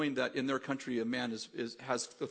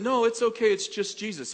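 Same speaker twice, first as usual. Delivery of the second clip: amused reassurance; 8 semitones higher, 8 dB louder than usual. Retold or imitated. Calming the panicked man, laughing.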